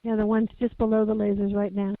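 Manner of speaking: muffled voice, as if covered. Real, not acted. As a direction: speak through a muffled mic. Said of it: "Your voice is a bit muffled".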